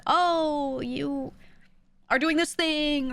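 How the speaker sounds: high, drawn-out moment of discovery; coach's realisation. Acted. Streamer imagining a vocal coach spotting the fault, drawn-out realisation. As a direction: stretch it out as a sudden realisation.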